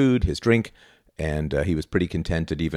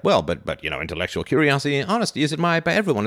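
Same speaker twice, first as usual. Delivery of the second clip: mock protest; 8 semitones higher than usual. Mimicking Hume's protest under censorship.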